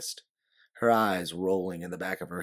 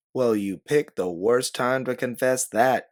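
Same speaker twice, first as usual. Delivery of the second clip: yell; 4 semitones higher, 6 dB louder than usual. A narrator's reading. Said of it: "you yell".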